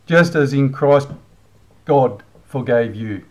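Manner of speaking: tossed-off, offhand reading of the verse; flippant reading. Shown as a demonstration. Vlogger reading the verse at the man he's angry with, flippant. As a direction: read it lightly, half-mocking. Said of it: "Sorry, I was being flippant there".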